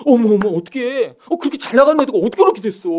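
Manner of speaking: high-pitched, hurried mock dismay; feigned sympathy. Classmates gossiping about a failed friend, feigning sympathy. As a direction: gush with put-on shock and pity. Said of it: "안 된 것처럼 얘기해놓고".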